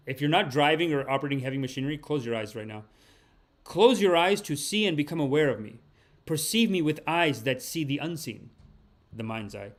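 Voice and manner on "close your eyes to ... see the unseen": intoning the card's words to the viewers; solemn card reading. Acted. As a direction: read it like a sacred message from beyond. Rereads card lines.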